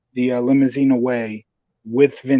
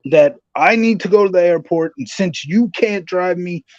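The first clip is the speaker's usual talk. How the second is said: mock Vince McMahon; 4 semitones higher than usual. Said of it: "Mister McMahon is like".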